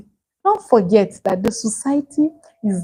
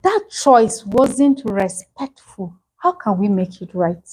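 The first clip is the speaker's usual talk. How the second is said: calm correction; slower than usual. Shown as a demonstration. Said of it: "So instead, say".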